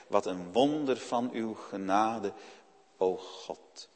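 a quiet, awed whisper of thanks to God; humble prayer. Retold or imitated. (zacht, eerbiedig gebed)

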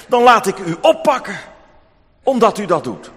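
luider, dreigend en geïrriteerd; boze rechter. Acted. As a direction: dreig haar kortaf te laten oppakken. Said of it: "En hij kijkt boos naar de weduwe". (rechter die de weduwe boos afwijst)

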